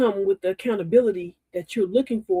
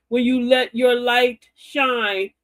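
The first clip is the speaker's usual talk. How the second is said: slow preaching; 4 semitones higher, 4 dB louder, much slower than usual. Retold or imitated. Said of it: "She said".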